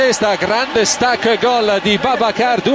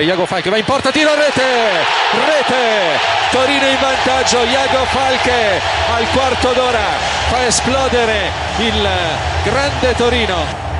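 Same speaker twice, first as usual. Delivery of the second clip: excited goal call. Real, not acted. Goal call in live commentary.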